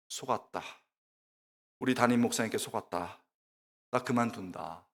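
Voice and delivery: low, quiet grumble to oneself; dejected inner voice. Retold or imitated. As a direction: sunken private complaint. Dejected inner grumble after ramen lunch.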